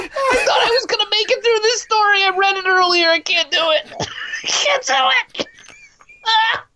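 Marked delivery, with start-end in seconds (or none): 0.4-5.5 laughing helplessly. Real, not acted. Laughing, can't continue.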